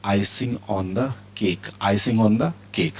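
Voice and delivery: each word drawn out slowly; slow model reading. Shown as a demonstration. Teacher models the idiom slowly for students. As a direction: read it slowly so students can copy. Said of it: "teacher models English idiom".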